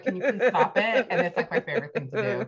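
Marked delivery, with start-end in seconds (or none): 0.0-1.1 exasperated husband. Retold or imitated. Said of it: "My husband's like".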